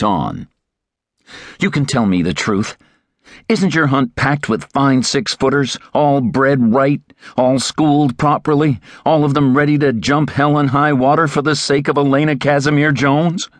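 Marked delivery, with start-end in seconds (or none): 1.6-13.5 put-on higher, eager young man's voice; eager young Terry. A narrator's reading. Young Terry quizzing the master, higher and eager. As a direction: press the question, young and keen.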